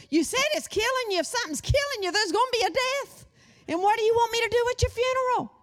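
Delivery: high-pitched, fast mock protest; exasperated teasing retort. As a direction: pitch it way up and rattle off the comeback. Acts out teasing retort to husband.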